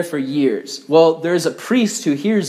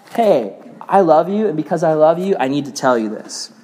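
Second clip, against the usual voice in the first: mock-earnest, caring talk; gentle correction. Acted gentle way of correcting someone.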